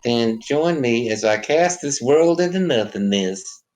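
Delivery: slow, solemn prophet voice; Jesus figure voice. Acted. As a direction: intone like a holy savior. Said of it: "Jesus figure".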